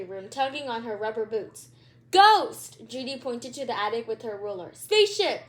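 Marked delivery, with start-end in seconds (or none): 2.1-2.9 much higher and louder, a startled cry of ghost; alarmed shout. Acted. Judy pointing, alarmed. 4.7-5.4 higher and louder, an excited blurt; breathless shout. Acted. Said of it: "said an out-breath Stink".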